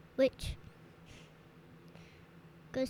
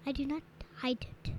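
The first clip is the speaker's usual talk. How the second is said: whispering; 6 dB quieter, faster than usual. Real, not acted. Child denies hiding lunch.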